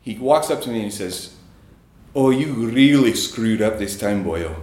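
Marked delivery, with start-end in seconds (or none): 2.1-4.5 put-on a faint, half-hearted Scottish accent, said through a laugh; bad Scottish accent. Retelling his Scottish friend Mick's prank line, in a weak Scottish accent. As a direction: attempt a Scottish accent and barely land it. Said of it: "I'm gonna try to do a Scottish accent here".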